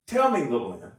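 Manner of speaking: a jovial jab at a friend; playful teasing. Shown as a demonstration. Voicing God teasing his friend Job, playful. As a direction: rib him gently. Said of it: "There's a playfulness to this".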